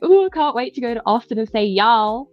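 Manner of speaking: put-on Southern accent. Visitor excited for Austin trying out y'all, imitated Southern accent. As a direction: play at being a Southerner saying y'all. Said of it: "I impersonate my friends 'cause their accents".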